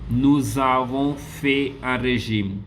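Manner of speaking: Nous avons fait un régime said slowly and clearly; slow model answer. Shown as a demonstration. Teacher slowly reads the corrected sentence to class. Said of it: "teacher models the answer".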